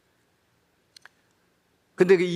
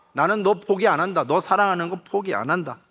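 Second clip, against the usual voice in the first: higher, steady resolute promise in dialect; firm Gyeongsang vow; 4 semitones higher than usual. Acted. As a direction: settle into a stubborn vow of love. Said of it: "제가 액팅을 해야 되겠습니다". (아들에게 끝까지 포기 않겠다고 다짐하는 아버지, 단호한 경상도 말씨)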